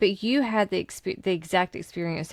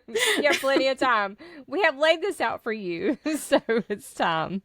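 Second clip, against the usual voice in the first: amused, higher-pitched sarcastic quote, settling at the end; 4 semitones higher than usual. Retold or imitated. Spirit guide nudges channeler to go, lightly sarcastic. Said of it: "My team is very sarcastic".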